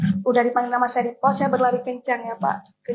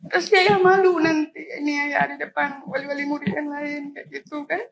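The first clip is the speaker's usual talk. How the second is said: tearful. Real, not acted. Girl retells her father's shame.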